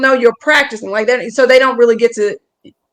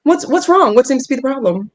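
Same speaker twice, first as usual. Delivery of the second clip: polite, proper customer-service query; workplace code-switch voice; 2 semitones higher than usual. Shown as a demonstration. Comic answers host's objection, code-switched polite voice. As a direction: ask in the careful work voice.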